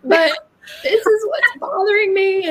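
high-pitched mock-mad venting; mock exasperated rant. Acting out her angry message to coach.

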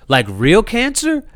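high, slow, stunned question; stunned disbelief. Retold or imitated. Son hearing his mom has cancer, stunned. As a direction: ask it like you can't believe it. Son shocked by mom's news.

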